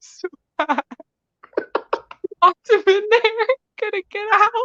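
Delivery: laughing hard while talking. Telling a story on the show, laughing maniacally while talking. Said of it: "you're laughing while you say this maniacally".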